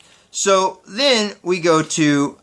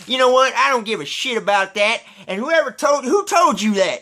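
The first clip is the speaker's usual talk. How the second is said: mock mad redneck; 5 semitones higher than usual. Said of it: "He was mad".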